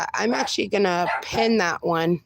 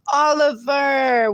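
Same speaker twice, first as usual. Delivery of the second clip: slow, loud, higher call of the name; drawn-out excited greeting; 4 semitones higher, 3 dB louder, slower than usual. Real, not acted. Host calling out a welcome to viewer Oliver. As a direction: stretch the name out happily.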